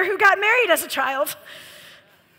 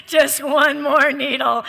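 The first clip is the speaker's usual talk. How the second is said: slow tempter voice. Retold or imitated. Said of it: "the accuser".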